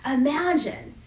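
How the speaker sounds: a hint of a self-important Judas; Judas boasting. Judas telling the disciples he has the most at stake. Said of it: "Or Judas is probably like".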